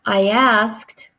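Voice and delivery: breathy whispered aside. Shown as a demonstration. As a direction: whisper it to the class.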